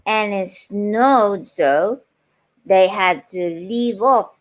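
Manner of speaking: measured storybook reading voice; gentle read-aloud pace with pauses; story narration. A narrator's reading. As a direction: read it aloud like a bedtime book.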